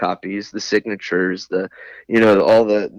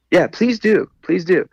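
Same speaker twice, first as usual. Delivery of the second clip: sarcastic dare; 8 semitones higher, 4 dB louder than usual. Retold or imitated. Daring clerk to call supervisor.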